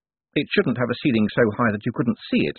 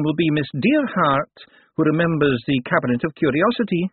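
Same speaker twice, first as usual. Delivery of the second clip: lightly voiced old wizard, higher pitched; a kindly old academic wizard, pitched up; elderly wizard; 6 semitones higher than usual. Elderly wizard greeting the visitors, higher voice.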